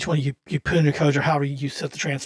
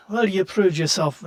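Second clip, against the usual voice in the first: put-on Russian accent; 4 semitones higher, 5 dB louder, slower than usual. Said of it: "He had a Russian accent".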